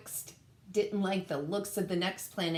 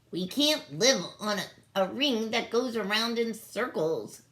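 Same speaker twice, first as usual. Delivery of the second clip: yelled protest; 4 semitones higher, 4 dB louder than usual. Acted. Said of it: "yelled Niklawixka".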